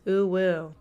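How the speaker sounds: deadpan, drained of all life; dead, monotone delivery. Shown as a demonstration. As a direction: say the cutesy words completely lifelessly. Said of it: "say it in a really dead voice".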